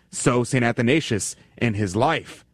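usual speaking voice

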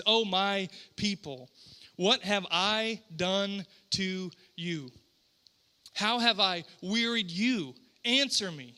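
slow, measured scripture plea; scripture reading. Acted. God pleading with his people, slow solemn reading. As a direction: read it slowly, weighting each word.

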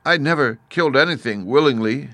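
a touch of tearful pleading; mildly sobbing girl. A narrator's reading. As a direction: protest like an upset little girl. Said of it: "she sobbed".

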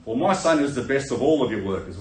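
a hint of a boasting father; proud dad. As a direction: brag about your son, lightly hammed up. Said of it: "Dad could come out and say".

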